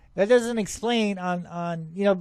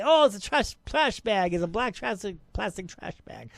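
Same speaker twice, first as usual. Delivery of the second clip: mocking doubters; 3 dB quieter than usual. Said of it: "a lot of people say".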